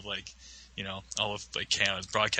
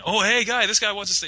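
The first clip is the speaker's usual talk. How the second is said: mock announcing; 11 semitones higher, 5 dB louder than usual. Roommate calls the news crew over.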